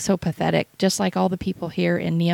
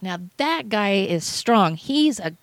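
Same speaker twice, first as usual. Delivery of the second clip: proud God; 3 semitones higher than usual. Retold or imitated. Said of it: "God pointing, saying".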